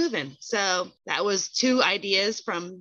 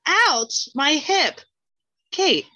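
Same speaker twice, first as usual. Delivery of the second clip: put-on higher, louder old-man groan; achy old man; 8 semitones higher, 5 dB louder, slower than usual. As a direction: moan about a sore hip. Intro as aching elder.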